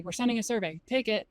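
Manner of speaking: blunt, bored delivery; curt flat announcement. Shown as a demonstration. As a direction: say it curtly, no context. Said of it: "Don't just say".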